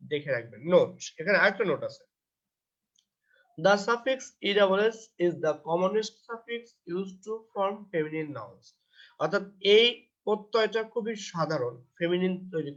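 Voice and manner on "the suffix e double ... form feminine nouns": reading "Note that" out word by word, very slowly; slow textbook reading. Acted. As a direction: dictate the English rule slowly to the class. Reads English rule aloud slowly.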